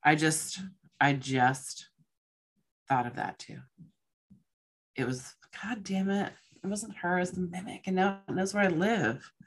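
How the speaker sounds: hushed, halting fright; soft and uneasy, pausing as it sinks in; really scared. Real, not acted. Realizing the mimic knows where she lives, quietly scared. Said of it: "I just got so scared".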